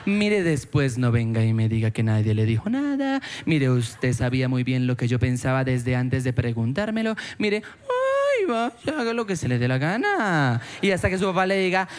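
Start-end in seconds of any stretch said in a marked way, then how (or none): 0.1-9.0 exasperated father. Retold or imitated. Father scolding his stubborn son, hammed-up exasperation. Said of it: "Y el papá le dice". 9.0-10.6 fed-up father. Retold or imitated. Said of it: "Y el papá le dice".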